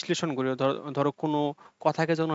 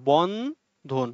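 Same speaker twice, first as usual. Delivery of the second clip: বন্ধন said slowly as বন্-ধন with one stop in the middle; split in two; much slower than usual. Shown as a demonstration. Teacher showing two syllables to students, slowed. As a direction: pause once inside বন্ধন. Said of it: "একবার থামছি".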